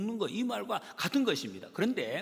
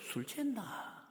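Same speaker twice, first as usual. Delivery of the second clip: gossip aside; 5 semitones higher, 8 dB quieter, slower than usual. Retold or imitated. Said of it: "그렇게 이야기를 한단 말이에요".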